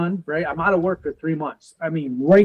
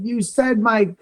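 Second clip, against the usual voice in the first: retold protest; 6 semitones higher, slower than usual. Protesting to the angry doctor.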